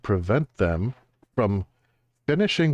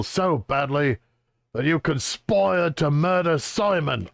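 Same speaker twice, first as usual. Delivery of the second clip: higher, gruff bullying inspector; Chelmy interrogating; 5 semitones higher than usual. Acted. Inspector Chelmy grills Layton for an alibi, bullying. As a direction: push the suspect hard for an alibi.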